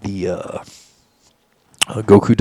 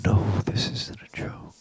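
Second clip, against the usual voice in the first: alien voice; 9 dB quieter than usual. Retold or imitated. Aliens answer in retold encounter.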